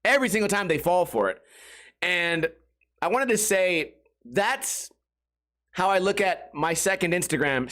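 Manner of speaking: usual speaking voice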